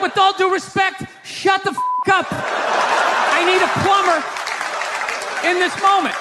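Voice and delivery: a hint of a fed-up husband; mock polite snap. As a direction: bite off the words through a laugh. Husband telling wife off.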